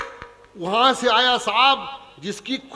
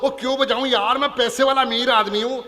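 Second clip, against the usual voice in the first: louder, higher, puffed-up rich man; snooty rich man; 5 semitones higher, 4 dB louder than usual. Retold or imitated. Rich guest in the audience refusing to laugh, pompous and loud. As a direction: boom it out like a self-important moneybag. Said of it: "तालियां तो बजा दो".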